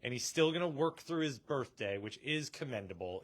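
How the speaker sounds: lightly sarcastic praise. Real, not acted. Host commending a coworker's birthday shift, sarcastically. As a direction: praise him with a dry sarcastic edge. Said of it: "saying it in a sarcastic voice".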